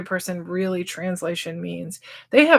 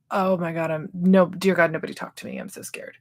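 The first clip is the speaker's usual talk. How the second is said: hushed, hurried timid mumble trailing to a whisper; timid and mousy; 2 semitones lower than usual. Acted. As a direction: play a mousy newcomer, fading to nothing. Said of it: "timid and mousy".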